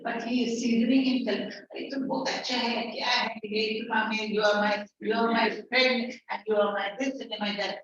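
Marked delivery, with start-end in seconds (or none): 1.7-7.8 sweet-talking scammer. Acted. Teacher acts a sweet-talking scammer.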